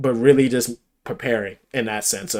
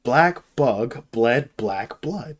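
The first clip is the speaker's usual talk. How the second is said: put-on explaining voice; 5 semitones higher, 5 dB louder, slower than usual.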